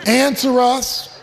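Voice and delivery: slow, drawn-out plea to an idol; pleading to Baal. Retold or imitated. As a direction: lightly mimic prophets begging their god. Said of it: "they were saying".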